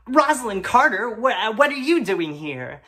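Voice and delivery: loud high astonished cry; gasping surprise. Acted. Narrator shocked to see Rosalind Carter, gasping surprise. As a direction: gasp at seeing her there. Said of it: "I gasped".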